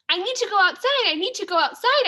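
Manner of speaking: loud, eager, high-pitched plea to go out; dog begging loudly to go outside; excited shout. A narrator's reading. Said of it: "I shout".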